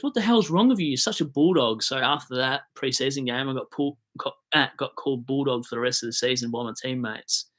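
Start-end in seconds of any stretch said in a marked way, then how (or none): 0.0-1.8 high, loud mock tirade; angry coach yell. Coach yells at the speaker after a near fifty metre penalty, mock angry shout. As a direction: imitate the coach blowing up. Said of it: "my coach flipped the shit out of me and goes".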